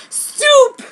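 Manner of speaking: very high, loud cry of stop; shout. A narrator's reading. Kishu halts the fight between heroine and Pai, shouting. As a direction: cut the fight off with one shout. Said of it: "and said".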